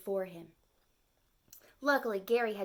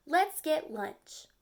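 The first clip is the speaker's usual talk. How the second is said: eager turtle; 5 semitones higher, 4 dB louder, slower than usual. Acted. Turtle suggests lunch.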